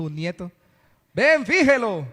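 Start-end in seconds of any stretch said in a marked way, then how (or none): 1.1-2.1 high, loud mock parental call; calling a child. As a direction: call the kid over by name, playfully. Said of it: "Cómo le diría usted a un niño".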